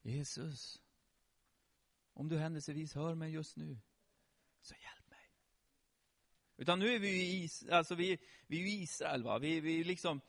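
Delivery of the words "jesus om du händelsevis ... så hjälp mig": soft, hesitant plea fading to a whisper; overly polite, timid Swedish. Acted. How the blind man did not call Jesus, timid super-Swedish murmur. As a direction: ask meekly, barely daring to be heard. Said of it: "inte då så här supersvenskt liksom".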